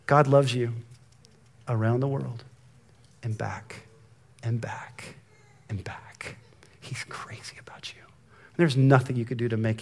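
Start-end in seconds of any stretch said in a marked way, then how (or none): 0.1-6.4 softer and lower, dropping to a breath; tender fading. Real, not acted. Tender sermon climax. 6.8-8.0 soft intimate whisper; tender whispered promise. Real, not acted. Whispered reassurance.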